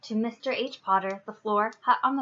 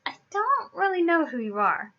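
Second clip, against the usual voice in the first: lightly voiced boy, lifting higher at the end; a hint of a boy's voice, apologetic; politely puzzled, slightly boyish; Harry; 3 semitones higher than usual. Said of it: "this is Harry talking".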